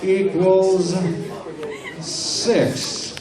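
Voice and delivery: put-on high, loud, slow kid reciting sums; childlike answer. Hypnotist subject answers the math question as a kid.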